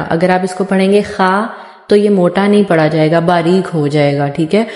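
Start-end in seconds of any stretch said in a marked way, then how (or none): 0.0-1.5 खा said flat and thin, the wrong way; a light, straight खा; wrong thin kha. Shown as a demonstration. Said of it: "बिल्कुल सीधा खा नहीं पढ़ना".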